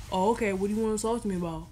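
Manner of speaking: put-on quick, casual boyfriend reply. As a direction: voice the clueless boyfriend. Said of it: "That's my reenactment of the conversation".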